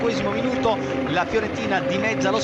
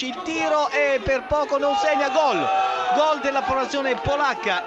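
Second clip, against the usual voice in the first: breathless italian goal commentary; 5 semitones higher than usual. Real, not acted. Goal call in live commentary.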